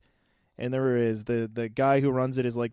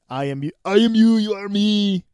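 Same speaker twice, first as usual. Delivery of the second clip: louder, higher mock-intense Eddie arguing with Venom; imitating Tom Hardy's Eddie; 5 semitones higher, 7 dB louder than usual. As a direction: ham up the inner struggle, loud and strained. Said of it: "Arnold stuff".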